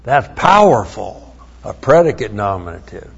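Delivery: sarcastic, a little shouted on yeah; lightly voiced mock English majors; mock unimpressed reaction. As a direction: mimic bored students faking awe. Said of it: "you're going".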